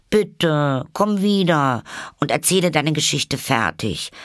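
high pleading call; calling after. A narrator's reading. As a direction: call someone back, begging. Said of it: "rief Alice ihr nach".

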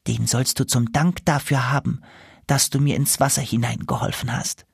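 lightly voiced grateful goose; a touch of a thankful gander. Goose Martin speaking, grateful.

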